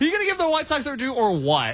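mock annoying voice. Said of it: "mocking his impression".

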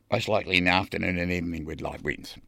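breathless, rushing the words; puffed from running back; out of breath. Real, not acted. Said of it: "I'm out of breath".

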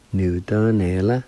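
"Nu, dun, ne, la" run together as one word; joined-up pronunciation demo. Shown as a demonstration. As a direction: blend "Nu, dun, ne, la" without breaks. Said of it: "It's pronounced like this".

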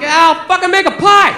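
acted flustered outburst; panicked. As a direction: blurt it out to end the pressure. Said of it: "So I panicked".

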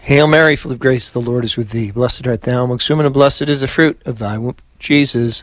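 steady devout Hail Mary; prayer recitation. Acted. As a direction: lead the prayer evenly. Leads the rosary.

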